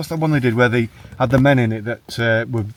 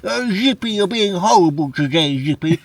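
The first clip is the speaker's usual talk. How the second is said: high puppet voice scolding; George from Rainbow; 6 semitones higher than usual. Pretend. George puppet chiding Zippy for a friend, high voice. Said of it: "impression of George".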